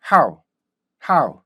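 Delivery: "How" as one short punchy syllable, falling away; correct English how. Shown as a demonstration. English teacher models the word for learners, correct "How". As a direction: say "How" crisply with a quick glide. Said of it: "이렇게 읽어야 되는 단어".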